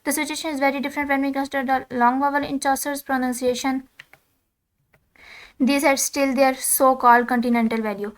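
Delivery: reading English text aloud, slow and deliberate; slow textbook reading. Acted. Teacher reading the textbook to students, slow dictation. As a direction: dictate each word slowly to the class.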